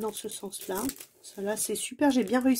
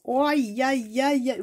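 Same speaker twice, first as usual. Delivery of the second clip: drawn-out "aïe aïe aïe" of dismay; dismayed wailing; 3 semitones higher, 3 dB louder, slower than usual. Real, not acted. Crafter seeing the damage, dismayed wail. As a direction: wail at the botched job. Dismayed at her badly creased work.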